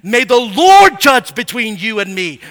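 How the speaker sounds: building from steady to a loud demand for judgment; wife calling on the Lord to judge her husband; hot complaint. Acted. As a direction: let the anger swell to the last line. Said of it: "Oh, she's hot".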